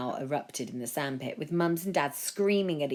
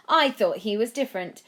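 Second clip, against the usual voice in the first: gushing woman in black; 9 semitones higher, 8 dB louder than usual. A narrator's reading. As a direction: swoon over the Prime Minister. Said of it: "the woman in black yelled".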